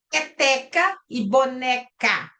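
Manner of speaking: "peteca e boneca" slowly, marking each final "ca"; slow "peteca e boneca", the closing "ca" set apart; last syllable marked. Shown as a demonstration. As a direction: spell out the rhyme, lingering on "peteca" and "boneca". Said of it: "A última sílaba".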